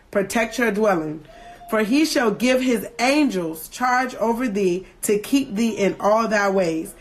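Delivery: solemn King James recitation; scripture reading. Acted. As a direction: read it like a psalm in church. Reads the psalm on.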